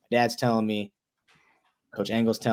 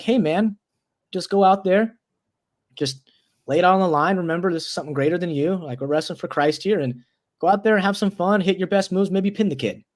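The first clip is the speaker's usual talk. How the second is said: higher-pitched, earnest urging; encouraging pep talk; 6 semitones higher than usual. Retold or imitated. Wrestler urging a nervous competitor before his match, encouraging.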